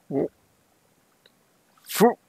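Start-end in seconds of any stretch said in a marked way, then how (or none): 1.8-2.1 puffed mouth boom sound; explosion noise. Pretend. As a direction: blow out a little explosion. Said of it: "I made the explosion noise".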